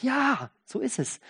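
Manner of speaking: slow, high, opened-up yes; lifted, unhurried confirmation; open affirmation. Shown as a demonstration. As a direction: affirm it slowly with an open heart. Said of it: "dann öffne ich mich, dann sag ich".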